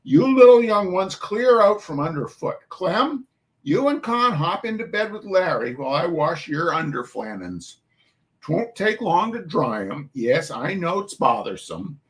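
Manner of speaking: put-on Irish-tinged New York mum calling the children to chores; New York Irish dialect. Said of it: "I do not know this dialect".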